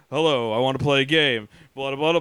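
a hint of the Saw puppet; Jigsaw voice. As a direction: drop low for the creepy puppet. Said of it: "Jigsaw comes on".

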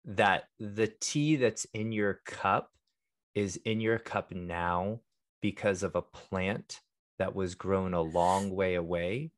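calm and hushed, like a meditation guide; soft monk voice. Real, not acted. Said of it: "our monk voice, our soft speak voice".

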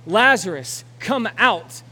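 loud, commanding call to the dead; yelled command. Acted. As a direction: shout Lazarus out of the grave. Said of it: "Jesus yells to Lazarus".

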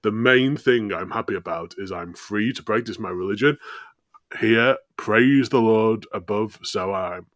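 lightly faked Irish accent of a pious settler; attempted Irish accent. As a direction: try an Irish settler's lilt. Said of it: "I'm a hundred percent Irish".

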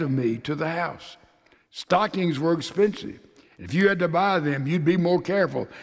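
earnest letter read to a sleeping son; heartfelt reading aloud. Acted. A preacher reading a father's letter to his son, earnest.

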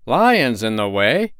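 slow, startled question; startled cry. Acted. Travelers, startled by the warning, cry out slowly. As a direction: repeat it in shock. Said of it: "cried the travelers".

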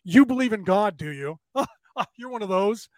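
laughing through a retold taunt; mocking laugh. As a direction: chuckle down at him while you talk. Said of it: "this guy looks at me and starts laughing".

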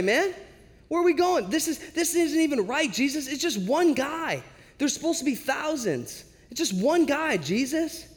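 high-pitched comic bickering; whiny mock outrage, voice pushed way up; hammed-up griping at the navigator and leader; exasperated complaint. Disciples bicker over wrong destination.

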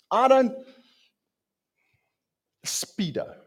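whispered Speedo. Real, not acted. Preacher joking to the congregation, whispered aside. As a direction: breathe the word Speedo unvoiced. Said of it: "You will never, ever see me in a Speedo".

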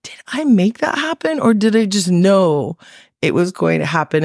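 high-pitched self-questioning, retold; high, incredulous retold question; guilty wondering. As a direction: wonder in mock alarm if it was you. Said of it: "I felt so guilty".

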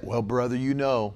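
low, soft sanctimonious murmur; sighing mock humility; mock pious Christian. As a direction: imitate a resigned churchgoer. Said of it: "Why do people say that?".

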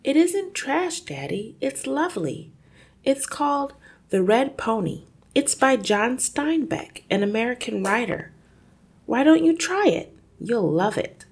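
put-on high, eager little-girl voice; girl pleading. Daughter earnestly recommending a book to her father, high and eager. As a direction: sell him on the book sweetly.

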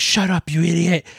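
a half-hearted imitation of an annoyed friend; mock scolding. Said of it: "He's like".

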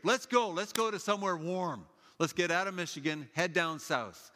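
itching to get going; excited. Retold or imitated. Family setting off on a road trip, eager and excited.

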